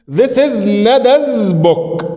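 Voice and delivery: very slow drawn-out teacher model; slow model sentence. Shown as a demonstration. Teacher modelling the example slowly for pupils. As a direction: read it word by word. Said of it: "اقولها ازاي؟".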